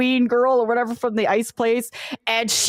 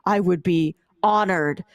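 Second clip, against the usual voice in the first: a hint of a lower, demure warrior woman; lightly voiced swooning fighter, lower; low voiced princess; 7 semitones lower than usual. Player retelling the character's acceptance, lightly voiced lower.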